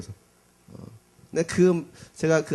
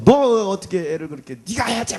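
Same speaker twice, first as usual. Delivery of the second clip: retold scolding; 4 semitones higher, 5 dB louder than usual. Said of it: "막 내가 뭐라고 했어".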